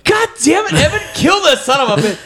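high-pitched, cursing shout; exasperated yell. Retold or imitated. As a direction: re-enact screaming orders at a hunting buddy. Re-enacts yelling at his friend.

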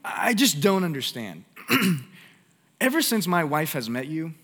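mock husband pleading high and loud; preacher retelling a husband's phone call, high and loud; frantic husband. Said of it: "the husband was like".

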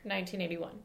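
hushed dramatic whisper. Pretend. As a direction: breathe it like a secret reveal. Dramatic countdown of the opening date.

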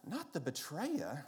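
put-on slow, horrified Brooklyn-accented line. Grandmother's friend fearing baby is Judas, mock-horrified Brooklyn accent. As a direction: imitate a scandalised Brooklyn woman. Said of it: "She had this great Brooklyn accent".

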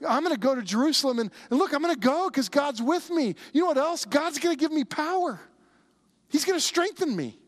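high-pitched, driving preacher's declaration; fervent resolve. Acted. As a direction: declare it with rising conviction as Paul. Preacher voices Paul's confident resolve.

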